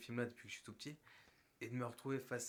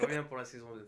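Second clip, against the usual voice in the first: laughing; 8 dB louder than usual. Real, not acted. Laughing after joke.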